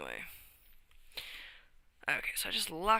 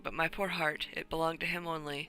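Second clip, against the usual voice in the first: put-on self-admittedly poor Spanish accent, a bit louder; 4 dB louder than usual. Countess explains meeting Lord Vandernot, weak Spanish accent. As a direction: attempt a Spanish accent as the countess, broken English. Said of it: "I can't do a Spanish accent".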